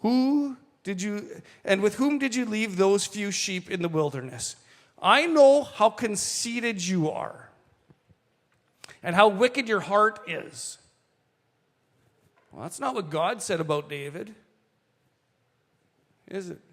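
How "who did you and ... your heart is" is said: scolding brother. Retold or imitated. Older brother accusing David of conceit, slow and angry. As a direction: draw out each accusing word.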